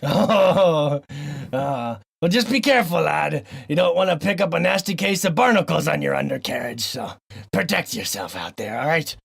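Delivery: mock old pirate giving advice to a lad; lightly voiced salty sea dog. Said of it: "talk in a weird pirate voice the whole intro".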